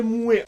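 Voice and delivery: moi dit « moué »; OI dit oué. Shown as a demonstration. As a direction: finir moi sur un É : moué. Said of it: "moi devient moué". (« moué » à la québécoise)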